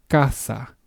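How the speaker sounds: casa with the C said as a K; hard C. Shown as a demonstration. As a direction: start casa with a k sound. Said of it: "pronunciation with the K sound".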